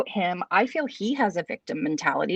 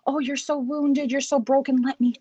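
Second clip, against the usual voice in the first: savior mentality; 2 semitones higher than usual. Acted. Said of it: "she's like that savior mentality".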